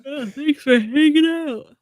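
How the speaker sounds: a hint of a British accent. Real, not acted. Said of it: "Sounded kinda British".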